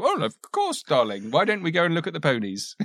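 high, swooping doting-parent voice; lilting parent humouring a child; indulgent parent. Acted. Parent answering a child's gibberish, indulgent and sing-song. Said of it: "the parent will go".

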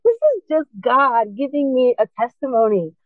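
excited, fervent testimony; retold conviction. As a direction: relive the revelation with lifted voice. Retold realisation.

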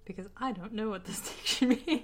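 stiff robotic monotone. Retold or imitated. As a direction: imitate a robot reading it. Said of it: "you say in robot voice".

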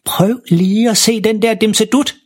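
langsom, lys præsentation; stolt far. Acted. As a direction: vis stolt dit fund frem. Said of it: "siger faren stolt". (stolt og langsomt)

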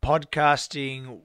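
hoarse, lost voice; raspy voice. Real, not acted. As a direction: talk through a raspy throat. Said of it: "endure my awful raspy voice".

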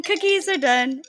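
cookies are done, drawn out slowly; slow announcement. Real, not acted. Repeating to the co-host that the cookies are done, slowly. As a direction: spell it out slowly for emphasis.

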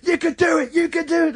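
high-pitched mock cheerleading; cheering on. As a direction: egg them on like rival supporters. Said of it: "like, cheering them on".

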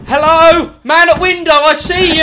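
high, very loud desperate holler; re-enacted plaintive cry for help; pathetic shouting. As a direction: yell to a passer-by at a window. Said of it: "the most pathetic thing I've ever shouted".

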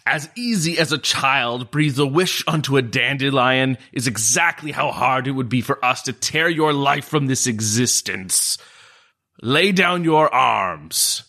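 a hint of commanding, slowing down to the end; mild commanding threat, slowing on the last words; attempted authority. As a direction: try to sound in charge. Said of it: "in his authoritative voice as he can".

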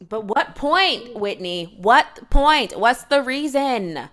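loud, fed-up shouting at the screen; exasperated yelling. Real, not acted. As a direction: demand an answer, exasperated. Yelling at Whitney on TV.

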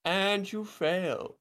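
put-on slow, high Indian accent; mocking teacher in an Indian accent. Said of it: "first time I've done that ... voices".

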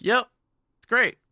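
high, bright fake-happy answer; forced cheer. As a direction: chirp it like a girl pretending all is fine. Hana forced to say she's fine.

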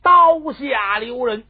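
long, loud, high-pitched call; drawn-out shouted command from afar; urgent shout. A narrator's reading. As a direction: cry out to halt an execution, stretching the words. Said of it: "猛然间有人喊了一声".

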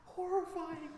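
slow, high, soft mock horror; drawn-out horrified reply; deadpan horrified. Mock reply to POV video.

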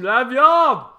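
loud, high excited cry. Real, not acted. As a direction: shout it with delight. Excited about the meat.

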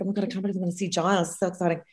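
rapid, softly gushed self-quote; excited babble kept small and quick; retold excitement. Woman on the train to see her boyfriend, retold quick excitement. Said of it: "I was excited on the dart".

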